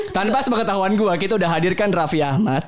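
lightly done emcee announcement; MC announcer voice. Pretend. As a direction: announce it like a show host. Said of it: "Kayak M C beneran ya".

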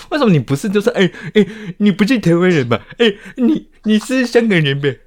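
high, loud teasing; laughing mock outrage. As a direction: fire back, laughing. Mocking her accusations back.

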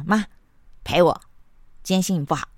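a sulky, rude little demand, loud on 陪我; grumpy demand. Retold or imitated. Son grumbles at mom after waking, sulky. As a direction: imitate a cranky son just out of bed. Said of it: "口气不好的就跟他妈说".

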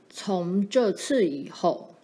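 slow, mildly menacing father; measured, forbidding start to a scolding; still frightening. Acted. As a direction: begin the warning slowly and sternly. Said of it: "声音还是很吓人的".

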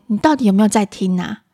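mildly exasperated questioning; irritable mother. Acted. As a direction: act a mum slightly fed up. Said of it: "暴躁的妈妈会说". (暴躁妈妈略带不耐烦地问)

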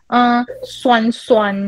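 put-on slow, drawn-out kid's Mandarin; lightly voiced child, slow and careful; imitating little son. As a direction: mimic the small boy sounding the word out carefully. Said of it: "他说".

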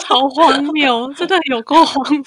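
laughing disbelief. Real, not acted. Laughing disbelief at absurd idea.

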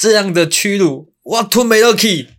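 high, loud anguished cry of humiliation; dramatic shouted title. Acted. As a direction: belt out the title like a wronged hero. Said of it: "主题标题帮我念一下".

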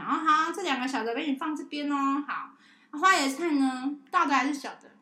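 put-on high, loud sing-song to a child; cheerful kid-talk. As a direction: bounce it brightly.

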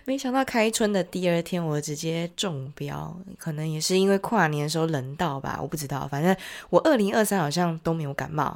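nasal voice from a heavy cold; sick, congested, blocked-nose voice; stuffy cold voice. Real, not acted. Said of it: "所以如果声音很奇怪的话".

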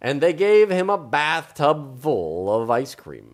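slow, savoured read-aloud; story narration. A narrator's reading. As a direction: relish the prize as you read.

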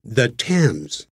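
Thames said as "tems", with a plain t and no th; correct pronunciation. Shown as a demonstration. Teacher correcting the Thames, quietly. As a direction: say the Thames the British way. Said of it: "不对".

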